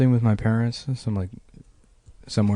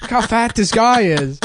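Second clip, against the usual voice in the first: put-on excited little kid; 9 semitones higher than usual. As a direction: call Mom over to look, innocently amazed. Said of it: "I was like".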